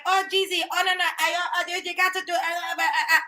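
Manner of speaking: fumbling attempt at an Asian accent, half laughing; clumsy Asian accent. Retelling the mother-in-law, a bad Asian accent. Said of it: "I don't know how to really do an Asian accent".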